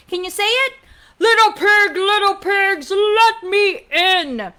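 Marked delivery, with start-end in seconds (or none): 1.2-4.5 rising demand, stretched at the end; big bad wolf. Wolf at the wooden house, loud drawn-out demand. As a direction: get louder and drag out the ending. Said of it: "And he said".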